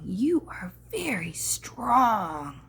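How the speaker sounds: slow, hushed whisper; a slow whispered compliment. Acted. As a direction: whisper it admiringly. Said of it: "These guys over here are saying".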